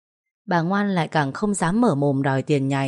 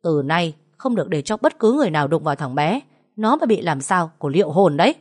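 angry. Acted. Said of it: "bực tức lườm cô Liên".

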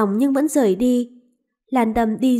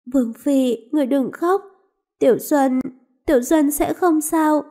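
slightly higher, pleading comfort; gentle consoling; 3 semitones higher than usual. Acted. Maid comforting her crying mistress, tender. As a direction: soothe your mistress through her tears.

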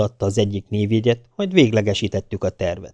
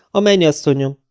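cheerful reply; 6 semitones higher, 4 dB louder than usual. A narrator's reading. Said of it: "feleltem vidáman".

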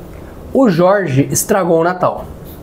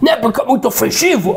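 fast, high, snippy comeback; mocking retort; 4 semitones higher, faster than usual. Relative fires back at the narrator, fast mock snark. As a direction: fire it back quick and snide.

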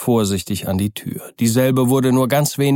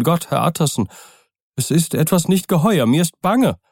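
higher, fearful butler voice; an old servant whose nerves are fraying; frightened old servant; 5 semitones higher than usual. Acted. Poole confides his fear.

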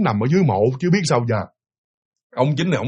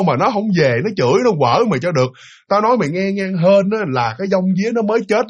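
mild grandmother scolding; 3 semitones higher than usual. Retold or imitated. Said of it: "đứng chửi tùm lum".

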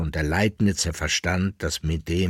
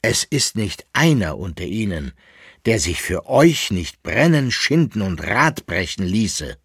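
solemn; 4 semitones higher, 6 dB louder than usual. Acted. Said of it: "sagte in feierlichem Ton".

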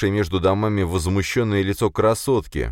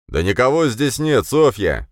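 raised, higher man's voice calling out; loud reply; 7 semitones higher, 5 dB louder than usual. Acted. A searcher loudly calls to Sofya that nobody is there. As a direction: call back loudly across the cave. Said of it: "громко ответил мужской голос".

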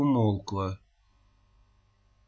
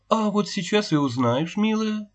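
gentle; 8 semitones higher than usual. A narrator's reading. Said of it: "так же мягко продолжала".

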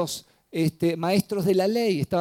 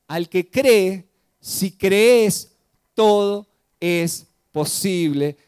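proclaimed; 5 dB louder, much slower than usual. Acted. Closing appeal to the congregation.

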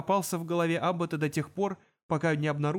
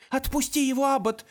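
louder, higher commanding shout; 10 semitones higher, 4 dB louder than usual. Acted. Elf with gun shouting at the demon. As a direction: order him to let go. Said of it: "крикнула она".

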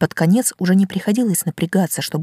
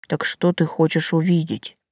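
talking tree. Acted. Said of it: "низкий и бархатистый".

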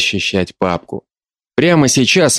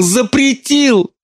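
запретил drawn out very high and slow; mother breaking down, запретил wailed; much slower than usual. Acted. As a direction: wail запретил out at length. Repeated in wail.

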